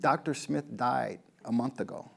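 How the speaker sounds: hushed, breathy whisper of grief. Retold or imitated. The widow tells him on the phone, whispered. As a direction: breathe it out, barely voiced.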